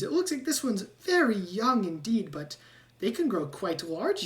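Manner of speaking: a rat lecturing about spiders; rat scientist. Acted.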